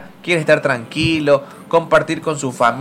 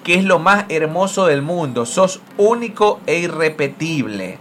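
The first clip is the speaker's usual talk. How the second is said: measured reading of a written tribute; tribute read aloud. Acted. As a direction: read out a fan's thank-you message. Reads a journalist's tribute aloud.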